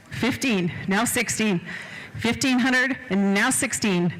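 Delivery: quick rolling auctioneer chant; auctioneer bid calling. Acted. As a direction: rattle off the bids to keep the room going.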